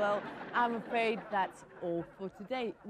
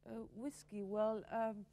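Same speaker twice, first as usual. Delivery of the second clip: put-on American accent; 2 semitones higher, 3 dB louder than usual. A cowboy guest boasts to the TV host in an American accent. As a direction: ham up the American rodeo star, swaggering and loud. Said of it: "what happened to your American accent".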